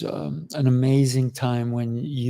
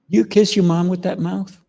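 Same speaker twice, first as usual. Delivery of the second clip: higher, mildly mock challenge; challenging retort; 6 semitones higher, 4 dB louder than usual. Friend talking back to a cursing police officer, challenging. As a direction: toss back a cheeky question, pitched up. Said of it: "turn to the police officer and say".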